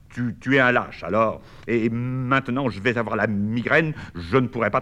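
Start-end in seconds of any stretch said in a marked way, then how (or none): 0.1-1.4 slight stutter. Acted. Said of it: "il bégaye légèrement".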